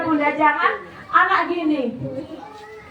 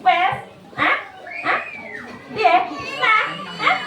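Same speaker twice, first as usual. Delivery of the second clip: raised-pitch, impatient prodding; high tone; 7 semitones higher than usual. Shown as a demonstration. Parent pressing an upset child for answers, in a high tone. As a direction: fire short questions with the pitch jumping up. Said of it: "Nada itu kan tinggi".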